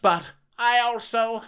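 high, slow sing-song mock; mock Karen. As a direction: croon it sweetly, mocking her. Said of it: "Karen says".

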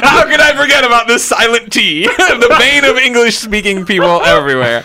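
high, loud, hammed-up lament; mock outrage. Host defending his T to co-hosts, mock-anguished outburst. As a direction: wail it theatrically, laughing partway through.

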